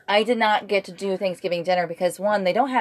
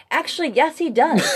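laughing reply; 9 semitones higher, 4 dB louder than usual. Retold or imitated. Jokey reply to the stereotype.

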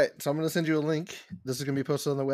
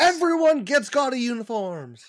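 slow, loud, laughing proclamation; laughing mock announcement; 8 semitones higher, 5 dB louder, slower than usual. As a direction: announce it grandly through laughter.

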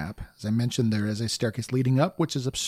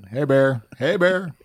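loud calling out to a bear; scaring off a bear; 3 semitones higher, 5 dB louder than usual. Pretend. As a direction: shout to shoo a bear away.

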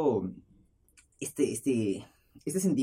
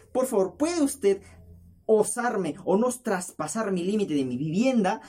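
slow, higher, overly courteous plea; mock-polite request; 5 semitones higher, slower than usual. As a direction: act out an elaborately formal princess's request. Imagined over-polite princess request. (súplica lenta y exageradamente cortés)

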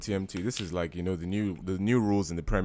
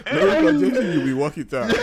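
judge line, laughing through; stern verdict dissolving into laughter; 8 semitones higher, 8 dB louder than usual. Retold or imitated.

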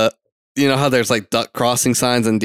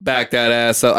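hiccuping mid-phrase; words broken by hiccups; 3 semitones lower than usual. Real, not acted. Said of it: "I get the hiccups over here".

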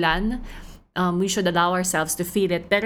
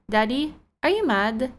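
put-on light child voice asking daddy; a hint of a toddler checking on daddy; little daughter; 6 semitones higher than usual. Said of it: "She'd go".

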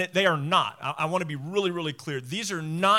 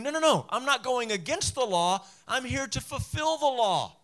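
earnest protest; 5 semitones higher than usual. Retold or imitated. Jesus protesting he's misunderstood.

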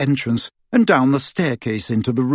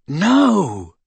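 raised, emphatic refusal; earnest, higher-pitched no; seriously; 6 semitones higher than usual. A narrator's reading. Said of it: "said Ron seriously".

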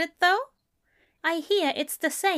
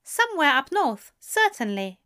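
prim; 5 semitones higher, 3 dB louder than usual. A narrator's reading. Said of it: "Aziraphale said primly".

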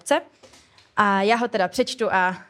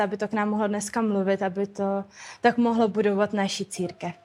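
prayer. Real, not acted. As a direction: pray simply to the Lord. Prays before the talk. (tichá upřímná modlitba)

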